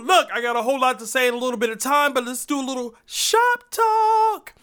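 rushed, fast take; too fast. Shown as a demonstration. Host rushing his opener, fast and rushed. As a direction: blurt it out at double speed. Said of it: "Look, that was a little fast".

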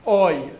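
OI as a diphthong, oh gliding to ee; oy vowel. Shown as a demonstration. Teacher showing European pronunciation of cholam, oy vowel. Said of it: "pronounce it as an".

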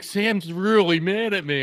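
high, slow mock-sheepish whine; imitating. Friend retelling the thief's worried whine, mock sheepish. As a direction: play him guilty and slow. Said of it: "he's like".

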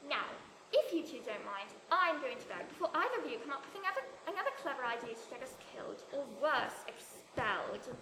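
lightly voiced English schoolgirl character; Harry Potter quote. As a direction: act out a film line, drawing out the last word. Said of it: "gonna quote a Harry Potter line".

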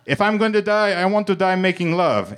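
high-pitched, hammed-up lover's cry; theatrical high outburst mid-exertion; mid-heave declaration. A narrator's reading. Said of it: "Antonio implied mid-heave".

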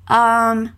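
drawn-out "um" before answering; hesitant thinking noise; thinking filler. Shown as a demonstration. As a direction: stall politely with a long "um". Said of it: "quando tá pensando em uma resposta".

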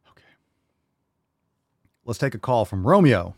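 ordinary talk

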